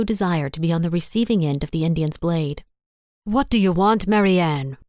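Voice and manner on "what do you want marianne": snapping. A narrator's reading. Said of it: "snapping at his secretary".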